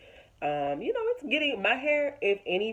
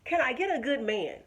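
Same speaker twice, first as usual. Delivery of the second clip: hopeful prayer; 10 semitones higher than usual. Retold or imitated. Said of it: "just lift up and say".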